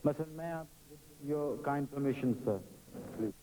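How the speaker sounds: slow, overly courteous stage request; a touch of mock stage etiquette; polite old-time singer. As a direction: humbly ask the audience's leave. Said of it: "अदब और तमीज से".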